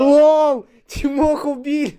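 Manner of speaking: high, excited outburst; shocked gamer yelling out news; panicking gamer. Real, not acted. Friend just got killed. (возбуждённый крик геймера)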